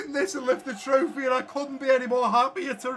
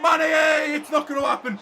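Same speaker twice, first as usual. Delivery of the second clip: frustrated shout; 4 semitones higher than usual. Real, not acted. Gamer watching his striker miss, frustrated shout. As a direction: shout his name as the chance goes. Chance missed in final.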